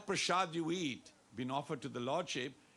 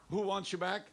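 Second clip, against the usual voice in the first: prompting question; 4 semitones higher, 3 dB louder than usual. Shown as a demonstration. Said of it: "aap to itna dheema bolte na".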